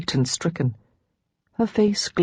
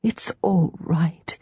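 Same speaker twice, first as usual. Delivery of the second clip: soothing murmur; much slower than usual. Acted. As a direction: murmur it again to comfort. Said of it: "Rachel murmured over and over".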